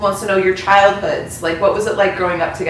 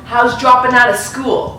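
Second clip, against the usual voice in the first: deadpan; 4 semitones higher, 3 dB louder than usual. Retold or imitated. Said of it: "look her deadpan in the face and go".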